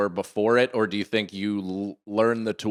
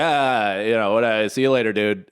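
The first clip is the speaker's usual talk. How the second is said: imitating an offhand, slightly louder shrug-off; casual brush-off; 4 dB louder than usual. Son shrugging off dad's praise, retold brush-off. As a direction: wave it away with mock nonchalance. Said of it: "how much I shook it off".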